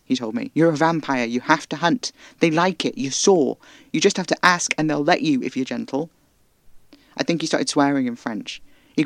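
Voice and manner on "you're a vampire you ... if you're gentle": raised, louder scolding voice; angry scolding. Acted. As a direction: lecture her hard, still shouting. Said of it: "I'm sorry I yelled".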